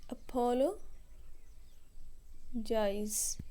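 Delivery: drawn-out whispered word. Shown as a demonstration. Teacher slowly whispering the word while spelling it. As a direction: breathe "अपोलोजाइज" slowly without voice.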